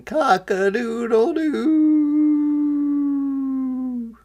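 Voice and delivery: very slow, high rooster crow. A narrator's reading. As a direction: crow proudly with wings flapping. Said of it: "flapped his wings and sang".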